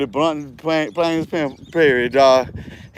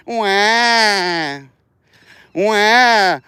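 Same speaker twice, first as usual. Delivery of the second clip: mock crying; 2 semitones higher than usual. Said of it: "they go to crying".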